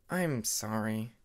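slow, low sheepish apology; embarrassed apology. Acted. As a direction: mumble it out, ashamed.

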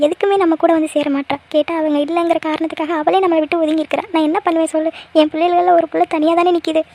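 mildly weepy lament, heavy-hearted; understated crying voice; tearful. Acted. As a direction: grieve aloud with a touch of tears. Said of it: "அண்ணி, அழாதீங்க அண்ணி".

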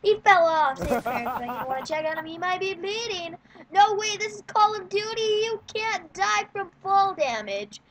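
breathless running game commentary; lively sportscaster-style game call; live play-by-play. Real, not acted.

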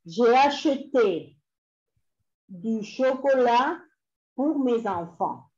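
slow French in short phrases; slow dictation. Shown as a demonstration. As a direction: dictate with a pause after each chunk. Repeating dictation for students writing.

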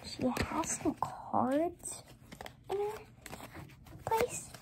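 slow, whispered note to self; hushed, drawn-out private remark; whispering to self. Real, not acted. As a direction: whisper it slowly to yourself. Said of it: "I was just whispering to myself".

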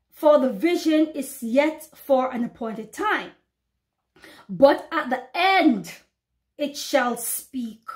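slow, solemn verse; preacher reading scripture slowly to her flock. Acted. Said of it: "the Lord says".

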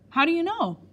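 high, loud startled question; blurted out. A narrator's reading. Caught faking by the doctor, boy blurts it out. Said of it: "I blurted out".

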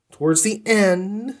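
"towards the end" drawn out slowly with a rise; slowed repeat. Shown as a demonstration. Reviewer warning listeners about later books, slow and ominous. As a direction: stretch it out, ominous.

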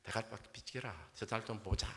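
deadpan Gyeongsang brush-off; Gyeongsang accent groom. Acted. Gyeongsang groom tells bride to move her head, deadpan Gyeongsang accent. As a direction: grumble at her in Gyeongsang dialect. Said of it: "경상도 신랑이".

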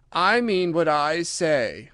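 slow, injured dignity; offended. Acted. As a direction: say it stiffly, hurt. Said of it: "in an offended tone".

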